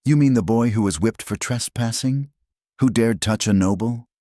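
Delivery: high-pitched, scornful questioning; scoffing. A narrator's reading. Nafret dismisses the boy who accuses her, scoffing. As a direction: scoff at the very idea. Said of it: "Nafret scoffed".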